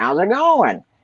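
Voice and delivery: high-pitched cartoon creature character voice. Showing the voice he could do for a character, Jackie the Jackalope voice. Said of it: "I had this voice that I could do. And it was kind of like this".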